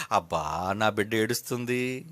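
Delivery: low, soft imitation of a doting parent; mock fond pity. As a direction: coo over the crying child in mockery. Mock doting God pitying tears.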